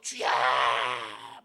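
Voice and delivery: long anguished call to the Lord; crying out in prayer. Retold or imitated. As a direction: wail it out like fervent prayer. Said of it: "막 기도하고".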